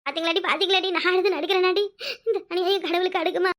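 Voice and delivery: breaking into tears while complaining; a wronged wife sobbing her complaint; tearful wail. Acted. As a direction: cry out to the heavens in grief. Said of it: "எடுத்து நடிக்கிறியா? அழுது".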